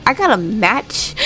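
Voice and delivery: sheepish excuse with a laugh; laughing mock excuse. Dominic dodging Liv with a laughing excuse. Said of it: "Like, "I gotta go".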